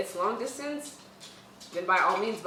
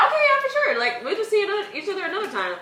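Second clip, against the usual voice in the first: laughing; 10 semitones higher, 3 dB louder than usual. Retold or imitated. Friend's cheerful brush-off quoted.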